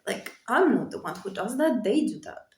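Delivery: emotional, pitch swinging up and down. Real, not acted. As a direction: fight through real emotion as you speak. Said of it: "I'm, like, emotional".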